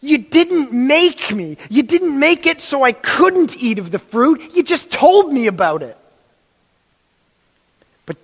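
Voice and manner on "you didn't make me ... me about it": mild whiny excuse. Retold or imitated. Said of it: "I can almost hear them looking to God and saying".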